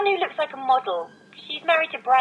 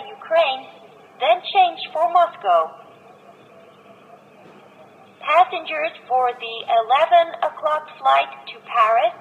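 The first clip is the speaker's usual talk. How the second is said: clear, even public address reading; airport announcement. Acted. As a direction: announce it over the terminal speakers. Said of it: "Listen to the airport announcement".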